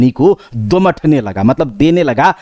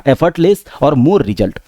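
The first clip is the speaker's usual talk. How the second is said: slow slogan; much slower than usual. Shown as a demonstration. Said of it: "slogan of smart preparation".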